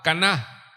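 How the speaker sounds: "caná" with the final A stressed. Shown as a demonstration. Preacher teaching congregation a word, "caná" stressed on the final A. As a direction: land firmly on the last A of "caná". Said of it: "con acento en la A".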